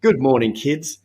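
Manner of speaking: cheery teacher greeting to the class; teacher greeting the class in the morning. Retold or imitated. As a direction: greet the little kids brightly. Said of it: "I'd say to the kids".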